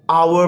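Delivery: hour, opening on the vowel, no H; hour with silent H. Shown as a demonstration. Teacher showing children how hour is pronounced, H silent. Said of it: "आवर pronounce करते हैं".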